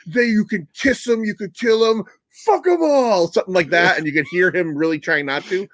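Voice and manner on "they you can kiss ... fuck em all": higher, lightly mocking Dolph Lundgren, barely holding back a Swedish accent; a hint of a gruff action-hero growl. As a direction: do a strained Dolph Lundgren fighting his own accent. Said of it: "straining to not say things with a Swedish accent".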